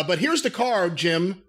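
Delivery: ordinary talk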